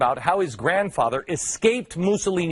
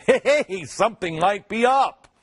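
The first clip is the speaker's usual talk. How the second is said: higher, louder mock "hey!"; sudden exaggerated realization, pitched up; mock dawning realization; 6 semitones higher, 4 dB louder than usual. Media slowly noticing something.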